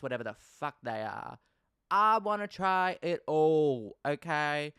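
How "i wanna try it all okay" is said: excited shout. Real, not acted. Excited list of US food.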